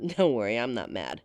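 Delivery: normal talking voice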